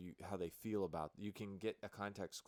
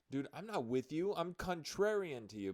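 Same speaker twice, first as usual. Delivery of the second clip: contrary; 9 semitones higher, 5 dB louder than usual. Retold or imitated. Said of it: "you can see from my expression".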